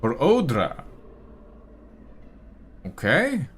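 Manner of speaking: lightly voiced bugbear, fussy and polite; a hint of a bureaucratic bugbear; bugbear official. Bugbear explains Odra is away, politely flustered. Bugbear keeps talking to party.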